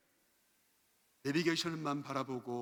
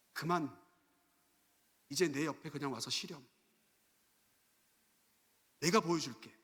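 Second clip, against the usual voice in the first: tender divine invitation. Acted. God inviting a weary servant to come rest, tender. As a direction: soothe after the outcry.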